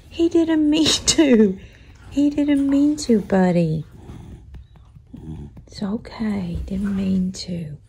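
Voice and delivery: soft, slow soothing; reassuring. Real, not acted. Owner soothing startled dog, soft reassurance. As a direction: comfort the little dog gently.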